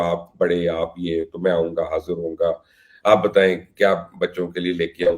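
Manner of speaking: a hint of sweet-talking flattery; imitating fawning players. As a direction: lightly voice a wheedling caller buttering him up. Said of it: "میں سمجھتا ہوں اس وقت کیا باتیں ہوں گی".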